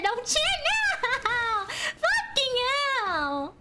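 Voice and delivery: slow, dragged-out laugh-cry; laughing despair. Real, not acted. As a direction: wail it while laughing at your bad luck. Dying right after a cheer.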